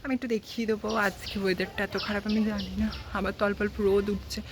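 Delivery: talking around a toothbrush; words slurred by brushing; while brushing teeth. Real, not acted. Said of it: "আমি এখন brush করছি". (দাঁত মাজতে মাজতে কথা বলা)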